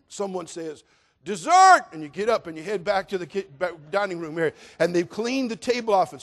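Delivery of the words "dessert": loud high call across the house; a relative shouting that dessert is ready. Acted. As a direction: shout it to the whole family. Someone calls out dessert.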